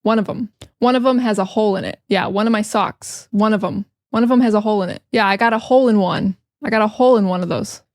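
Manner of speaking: quick run-together native chat; fast casual speech. Shown as a demonstration. Teacher demonstrating fast native speech. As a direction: rattle it off like everyday talk. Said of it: "When we talk fast".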